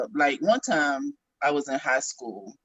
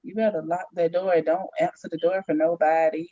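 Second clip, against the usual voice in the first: high, insistent imitation of a worried dad; protective father; 4 semitones higher than usual. Father warning his grown daughter about the door, imitated high and insistent. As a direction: imitate a dad laying down rules, pitched up. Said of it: "He be like".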